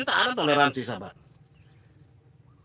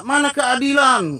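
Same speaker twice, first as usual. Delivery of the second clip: higher, louder, slow mocking cry of injustice; mock outcry; 7 semitones higher, 5 dB louder than usual. Preacher mocks enemies' cries for justice, mock outcry. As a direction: parody their outrage, drawn out and raised. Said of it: "mereka berteriak-teriak".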